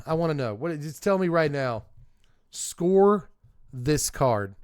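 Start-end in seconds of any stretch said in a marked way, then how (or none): 2.5-4.5 calling out. Acted. Host calling out to chat.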